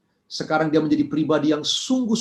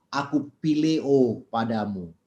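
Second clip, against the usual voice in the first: tearful; 6 semitones lower, slower than usual. Acted. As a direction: say it gently, near tears, slowly. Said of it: "Lalu Petrus menangis". (lirih dan pelan, sedikit menahan tangis)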